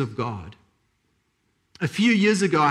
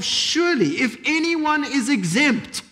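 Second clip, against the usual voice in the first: voicing Nicodemus' thoughts; 2 semitones higher than usual. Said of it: "Nicodemus is thinking to himself".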